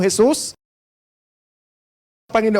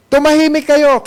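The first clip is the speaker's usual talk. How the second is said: "Tumahimik kayo" said higher and firm again; angry command; 5 semitones higher than usual. Retold or imitated. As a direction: repeat the hush order, a bit less sharp. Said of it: "nagalit yung mga leaders".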